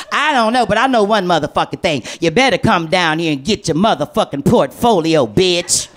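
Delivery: low, menacing mother on the phone; a hint of a furious mother; mama threatening.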